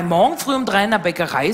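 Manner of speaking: lightly mocking echo of the agent; questioning echo. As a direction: repeat the news back, mildly incredulous.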